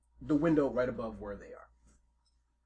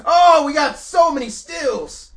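a lightly voiced mafia boss bragging, louder; boastful mafia boss; 14 semitones higher, 17 dB louder, much slower than usual. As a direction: brag about the heist like a proud gangster. Mafia boss boasting about stills.

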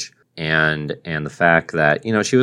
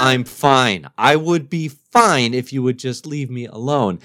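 high, slow put-on alien voice; 7 semitones higher, slower than usual. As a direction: play the grumpy alien, drawn out. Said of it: "in his alien language is like".

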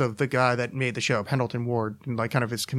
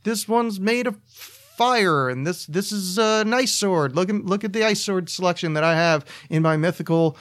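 much higher, put-on goofy shopkeeper voice; weirdo cartoon voice; 6 semitones higher than usual. Shown as a demonstration. Podcaster auditioning for cartoons, high weird voice. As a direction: pitch way up like a quirky cartoon sword seller. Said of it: "but listen to my voice right now".

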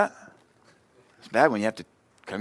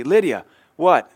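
louder, slowed stern fatherly prompt; stern prompt to daughter; 4 semitones higher, 8 dB louder, slower than usual. Retold or imitated. Father prompting his little daughter, slow and stern. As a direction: drag it out like a firm dad. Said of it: "I'll say".

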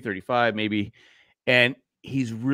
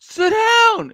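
mock yell; 7 dB louder than usual. Retelling fight at Mermaid.

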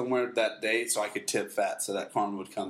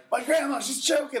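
panicked daughter; 13 semitones higher than usual. Retold or imitated. Daughter panicking in retold story.

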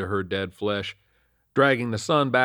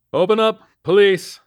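loud, raised-pitch command; police shout; 11 semitones higher, 10 dB louder than usual. A narrator's reading. Officer calls at the trailer door, shouting. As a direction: shout it through a closed door. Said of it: "I shouted".

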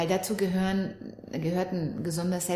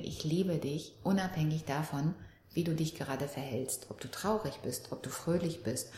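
tender reassurance; 4 semitones lower, 5 dB quieter than usual. Retold or imitated. Mother voices unconditional love to daughter.

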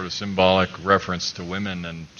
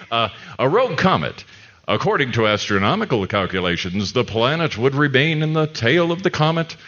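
trailer read. Acted.

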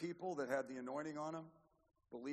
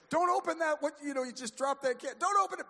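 high, loud panicked warning; acted-out shout, much higher and louder; urgent warning; 12 semitones higher, 10 dB louder than usual. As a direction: cry out to stop the grandkids. Warning grandkids about dropped soda can.

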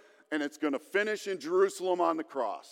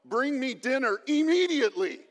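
mock demand; 6 semitones higher than usual. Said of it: "I have tried this tactic in my home".

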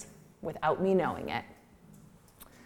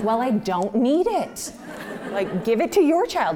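mom, laughing, higher; 5 semitones higher, 4 dB louder than usual. Retold or imitated. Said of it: "she's like".

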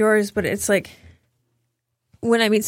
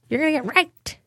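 mocking angry instructor; 7 semitones higher than usual. Imitating the angry gun instructor.

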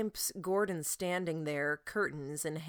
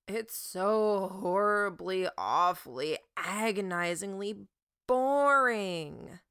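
theatrical whine; 3 semitones higher, 5 dB louder, slower than usual. Acted. Sy whining about boring work.

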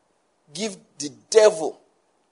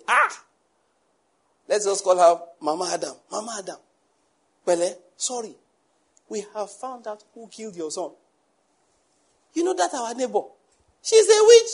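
mock hushed neighbor, sliding up to a squeal on witch; a hint of a scheming neighbor breaking bad news; gossiping neighbor; 2 semitones higher than usual. Preacher voicing the neighbor to the grieving mother, lightly mocking. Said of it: "the neighbor went and met her".

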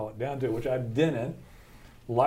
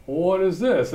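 exasperated; 7 semitones higher, 5 dB louder than usual. Retold or imitated. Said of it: "I'm even more, you know, blunt and country".

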